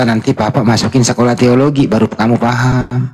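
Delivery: imitating a pastor soothing his child; mock soothing pastor. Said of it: "Jawabannya apa pendeta itu?". (pendeta menenangkan anaknya, pelan dan rendah)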